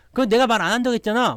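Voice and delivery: high, loud indignant retort; mock quarrel outburst. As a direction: snap back like a fed-up girlfriend. Acted girlfriend snapping back in quarrel.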